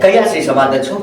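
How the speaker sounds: low, stern interrogation; stern questioning. Acted. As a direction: question the culprit in a low, controlled voice. Angry questioning, first low take.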